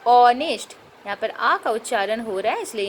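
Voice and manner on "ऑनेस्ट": ऑनेस्ट with a firm, louder opening vowel; ऑनेस्ट starting on a loud "o", H silent; silent-h pronunciation. Shown as a demonstration. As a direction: lean on the first vowel of ऑनेस्ट, no h. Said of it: "क्या बोले थे?".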